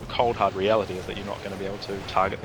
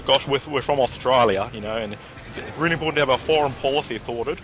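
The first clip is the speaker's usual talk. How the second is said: mock Australian politician's accent; lightly hammed-up Aussie speechmaking; thick Australian accent; 3 semitones higher than usual. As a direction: imitate a thickly accented Australian prime minister. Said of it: "that is one thick Australian accent".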